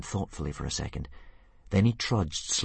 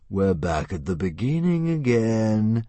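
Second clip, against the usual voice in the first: weary sigh; 2 semitones higher, 5 dB louder, slower than usual. Acted. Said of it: "sighed the Green Death".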